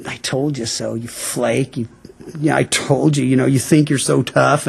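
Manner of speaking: a quiet contemptuous told-you-so; imagined harsh rebuke. Pretend. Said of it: "it's gonna be a hard look".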